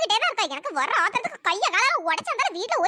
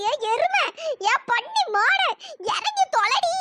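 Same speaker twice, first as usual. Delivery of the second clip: high scolding shout to get off; old woman ordering daughter-in-law off her; angry yell; 3 semitones higher, slower than usual. Acted. Pinned under daughter-in-law.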